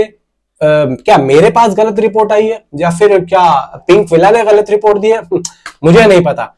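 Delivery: ordinary talk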